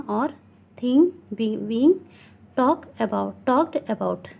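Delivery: slow, deliberate classroom reading; teacher slowly dictating from a textbook; textbook read-aloud. Acted. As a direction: read it out word by word for pupils. Reads rules and examples aloud.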